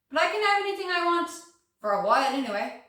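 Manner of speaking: high, forceful burst of freedom; defiant relish. Acted. Widow declaring she can have any man, defiant. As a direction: declare it boldly, with rising energy.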